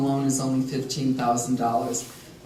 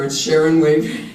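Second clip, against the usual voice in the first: laughing; 6 dB louder than usual. Real, not acted. Joking about colleague's name.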